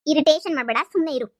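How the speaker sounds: exasperated telling-off; irritated. Acted. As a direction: cut off a pestering friend. Telling irritating friend to keep quiet.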